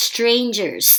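"strangers" pronounced carefully; clear pronunciation. Shown as a demonstration. English teacher showing learners how to pronounce "strangers", clearly. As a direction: model the word "strangers" clearly. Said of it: "ออกเสียง strangers".

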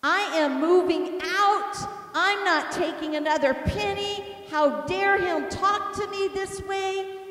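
high, emphatic retold rant; furious. Wife fuming upstairs about leaving her husband, furious. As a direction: re-enact storming off in indignation. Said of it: "I am just furious, and I am angry".

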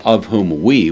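"of whom WE", the weight landing on the last word; stress on WE. Shown as a demonstration. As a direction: lean on the word "we". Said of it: "with an emphasis on the word we".

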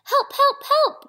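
high, loud little-truck cries; storybook cry for help, pitched right up. A narrator's reading. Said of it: "cried Little Blue Truck".

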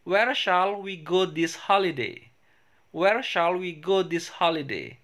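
careful classroom English, said twice for students to repeat; teacher modelling English for repetition; model pronunciation. Shown as a demonstration. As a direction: say it clearly so the class can copy you. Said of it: "saya akan ulang pengucapannya".

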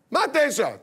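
startled mock wife; shocked mother. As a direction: gasp it back at him.

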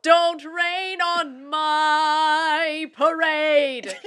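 slow, solemn documentary narration; deep alto narration. Shown as a demonstration. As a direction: intone it slowly and gravely. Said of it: "how would you narrate".

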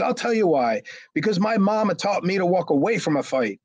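high-pitched mimicry of a defensive man; imitated earnest defence. Imitates the picked-on man's defence.

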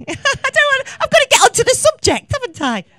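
high, loud giggly words through a laugh. Real, not acted. To the audience, embarrassed at repeating herself, laughing. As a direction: laugh at herself while pressing on.

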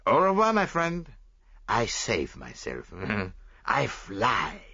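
lightly voiced Belgian detective; a hint of a French-accented Poirot; Hercule Poirot. Poirot speaks in story.

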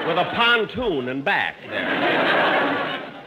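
slow words broken by laughter; laughing through words. Real, not acted. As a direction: push the line out through laughing.

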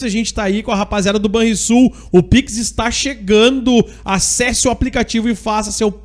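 punchy live sponsor plug; radio ad read. Acted. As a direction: reel off the sponsors like a radio announcer. Radio host reads sponsor mentions.

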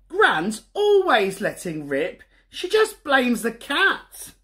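a hint of a sulky little boy; sulky Bertie. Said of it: "thought Bertie".

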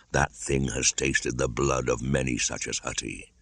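low, soft, knowing voice; grave panther. Acted. Bagheera explaining the ankus to Mowgli, grave. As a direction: tell it like a wise old cat.

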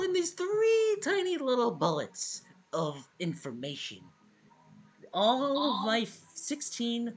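slow overdramatic lament; mock dramatic. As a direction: play it like a tragedy.

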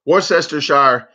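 Worcestershire said carefully, every syllable; proud clean Worcestershire; showing off Worcestershire. Shown as a demonstration. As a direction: nail Worcestershire as wor-ses-ter-shire. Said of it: "I'm like the king of saying Worcestershire".

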